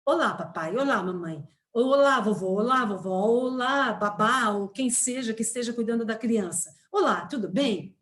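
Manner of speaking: a friendly teacher hailing each family member, slowing on the last hello; teacher greets parents in a recorded lesson, lightly cheerful and welcoming; cheerful greeting to parents. Retold or imitated. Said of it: "aprendizagem vai dizer assim".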